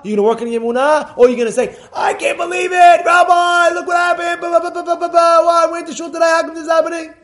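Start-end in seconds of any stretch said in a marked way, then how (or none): 1.9-7.1 high, loud complaining whine; whining shout. Retold or imitated. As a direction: wail it to the rabbi. Mock complaint to the rabbi.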